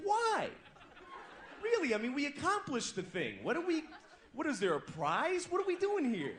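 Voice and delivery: high, pleading complaint; exasperated whine. Retold or imitated. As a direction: whine in tired disbelief. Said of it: "And I was like".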